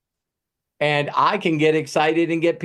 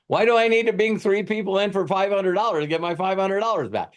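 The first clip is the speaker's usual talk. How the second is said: much higher, disbelieving question; can't believe this math; incredulous; 6 semitones higher than usual. Real, not acted. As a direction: make the deal sound absurd. Mocking the scheme's logic.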